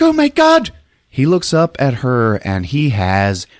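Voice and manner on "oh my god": high-pitched imitated gasp of alarm; mock horror. Woman seeing Paul on his knees, mock horror.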